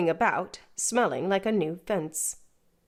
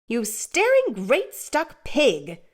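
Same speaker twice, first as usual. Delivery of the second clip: slow, higher, spat-out scorn; scornful insult; 6 semitones higher, much slower than usual. Acted. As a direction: sneer each word at him. Sister insults Joe.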